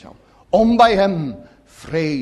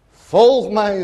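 ringing, raised call of Christ; loud call; 4 semitones higher, 5 dB louder than usual. Retold or imitated. Preacher voicing Christ's command to follow, called out loud. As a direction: call it out boldly to the hall. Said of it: "roept hij".

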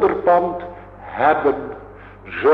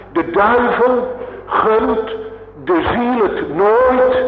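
fervent warning; 5 semitones higher than usual. Real, not acted. Preacher warns about the devil.

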